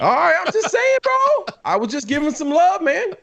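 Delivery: high, squeaky, playfully defensive. Real, not acted. Caught out by his friends, answering in a high squeak. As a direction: squeak out an innocent protest. Defending himself after being teased.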